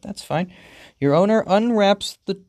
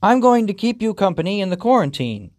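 higher, quick owner line; holding back voice crack; 4 semitones higher, faster than usual. Acted. Owner promises pet company, holding back a voice crack. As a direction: fight to keep the voice from cracking. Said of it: "trying not to make his voice crack".

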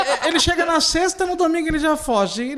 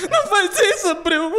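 desespero fingido; 5 semitones higher, slower than usual. Acted. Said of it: "desespere-se porque tu foi corna".

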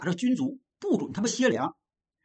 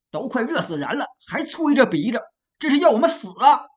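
pleading protest; 2 semitones higher, 4 dB louder than usual. Acted. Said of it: "跟杨志分辨".

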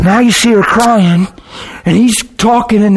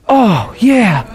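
higher, whimpered mock recollection; tearful realization; 5 semitones higher than usual. Weeping friend remembers his bladder, mock tearful realization. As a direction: imitate remembering through tears.

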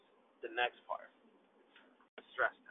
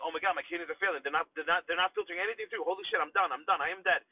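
panicked inner voice; 4 semitones higher, 5 dB louder, faster than usual. Retold or imitated. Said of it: "And I'm like".

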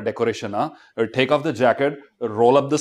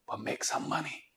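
whispered; 15 dB quieter than usual. Real, not acted. Quiet aside.

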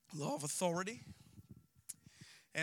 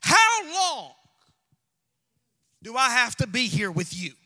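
a touch of weary exasperation on "How long"; lightly voiced Jesus, fed up; mild exasperated Jesus. Jesus to faithless disciples, lightly exasperated. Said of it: "Jesus responds this way".

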